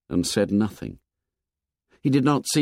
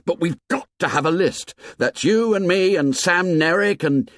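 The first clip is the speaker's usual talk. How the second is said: put-on a lightly higher, boyish Piggy; 9 semitones higher, 3 dB louder than usual. A narrator's reading. Piggy talking to Ralph about the list, lightly boyish. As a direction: lightly voice the chubby boy.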